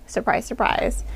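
dry, breathy whisper aside; whispered sarcastic aside. Real, not acted. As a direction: toss off a wry whispered joke. Dry aside about the movie.

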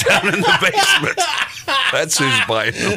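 dopey mumbling voice, laughing through it; mouth breather voice. Retold or imitated. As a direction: play a dull mouth breather. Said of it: "the speaker's impression of a mouth breather".

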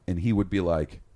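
ordinary delivery

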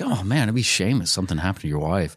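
lightly voiced friendly menace; smiling menacing loan shark. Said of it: "he's like".

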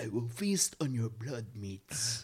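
slow, hammed-up creepy monster; eerie monster voice. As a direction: relish every word like a ghoul. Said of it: "That guy had the most eerie vo".

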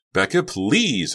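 high, slow drawn-out plea; beg, stretching the please; pleading. A narrator's reading. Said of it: "Honey pleaded".

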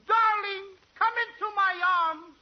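high-strung. Acted. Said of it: "aren't you a bit high-strung".

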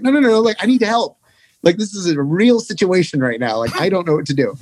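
high, pleading panic in the voice; panicked plea. Retold or imitated. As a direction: beg for help, half-panicked. Begging bandmates for help, panicked.

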